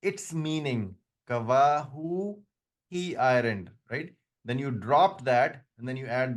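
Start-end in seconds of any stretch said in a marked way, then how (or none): 1.3-2.4 "kawahu" drawn out slowly; "kawahu" modelled slowly for students; slow demo word. Shown as a demonstration. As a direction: spell out "kawahu" syllable by syllable. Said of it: "But when you say ma'nahu".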